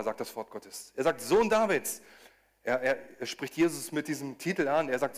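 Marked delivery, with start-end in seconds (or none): 1.2-2.0 higher, louder cry for mercy; a blind beggar crying out louder to be heard; pleading shout. Retold or imitated. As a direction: call out over the crowd, begging. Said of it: "Und er schrie nur noch lauter".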